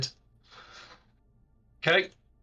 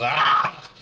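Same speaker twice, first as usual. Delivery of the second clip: short, loud "ah" scream; brief acted cry of a creature shoved back; creature's yell; 5 dB louder than usual. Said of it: "it sort of screams and yells".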